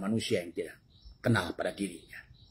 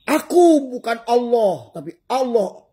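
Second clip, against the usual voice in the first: high, loud, slow mock voice with a laugh; voicing the listener; 13 semitones higher, 9 dB louder, slower than usual. Preacher mimics the listener, high, loud and laughing. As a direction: play the listener high with a chuckle. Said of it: "Kata kamu".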